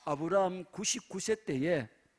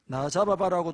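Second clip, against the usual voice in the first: playful taunt; 2 semitones higher, 6 dB louder than usual. Acted. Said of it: "서울 남자입니다".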